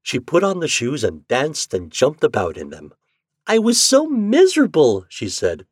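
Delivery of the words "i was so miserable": put-on high, loud, relieved girl; high-pitched storybook girl; little Marlene. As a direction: exclaim in a raised child's voice. Marlene happy with new shoes.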